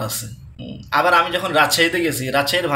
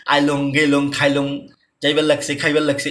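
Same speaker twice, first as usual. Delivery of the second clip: Kurigram dialect. Retold or imitated. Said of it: "ওরা কীভাবে কথা বলে যে".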